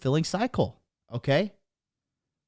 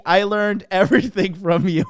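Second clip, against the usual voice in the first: laughing while reading; 3 semitones higher than usual. Real, not acted. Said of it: "I'm laughing so fucking hard".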